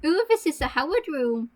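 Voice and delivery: lilting "Ooh" of discovery; set tone of voice. Shown as a demonstration. Showing a friend the tone before their line, lilting exclamation. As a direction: model the exclamation for someone to copy. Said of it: "in that tone".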